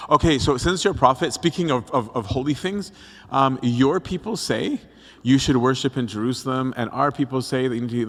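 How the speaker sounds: steer brightly away from an awkward topic; imitating someone dodging the topic; changing the subject. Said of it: "she wants to change the subject".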